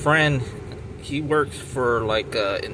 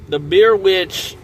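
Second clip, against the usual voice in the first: "the beer witch" slowed, higher and louder, ominous; dramatic beer witch; 5 semitones higher, 7 dB louder than usual. Acted. Telling friends about the dreaded beer witch, ominous slow stress. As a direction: drag out "the beer witch" like a spooky legend.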